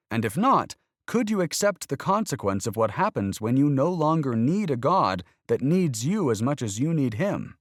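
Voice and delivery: voiced young boy. A narrator's reading. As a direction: play the boy pressing his point. Boy character voiced throughout.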